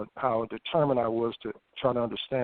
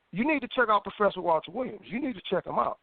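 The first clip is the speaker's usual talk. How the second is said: imitating an insistent inner thought, higher pitch; a higher, pestering voice in the head, retold; nagging thought; 5 semitones higher than usual. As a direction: lightly voice a thought that keeps nagging. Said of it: "a thought that kept eating at me".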